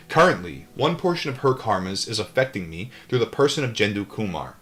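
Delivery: steady read-aloud narration; calm audiobook-style reading; book reading. A narrator's reading. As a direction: read the memoir aloud evenly.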